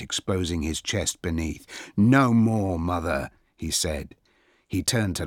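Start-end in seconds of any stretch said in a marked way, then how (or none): 2.0-3.3 loud, raised opening, then settling; defiant. A narrator's reading. Achilles refuses his mother's scheme, defiant. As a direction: refuse her firmly and forcefully.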